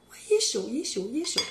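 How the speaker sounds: beaucoup plus haut, répété vite, ça brûle; réagir au biscuit brûlant; affolée par la chaleur. Real, not acted. Hot cookie in hand. (cri aigu, ça brûle)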